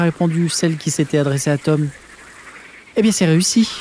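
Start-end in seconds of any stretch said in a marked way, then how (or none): 3.0-3.7 rétorque. Acted. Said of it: "a rétorqué la doyenne".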